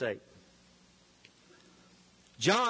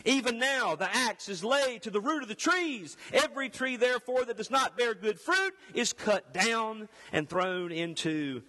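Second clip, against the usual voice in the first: raised, driving scripture declamation; loud preaching; 5 semitones higher than usual. Acted. Herald warning the crowds of judgment, forceful preaching. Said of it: "I'm gonna have to be loud".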